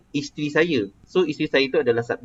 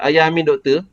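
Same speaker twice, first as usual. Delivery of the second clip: "Ayah Amin doktor" a little raised, as a question; 3 semitones higher, 4 dB louder than usual. Shown as a demonstration. Teacher testing whether the student hears a question, questioning. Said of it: "Saya macam bertanya tak?".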